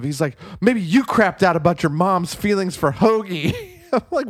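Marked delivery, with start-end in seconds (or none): 0.6-3.5 higher, indignant retold comeback; mock defensive. Podcaster quoting movie character's comeback, mock defensive. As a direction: throw it back as a hammed-up defensive retort. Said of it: "gets so defensive".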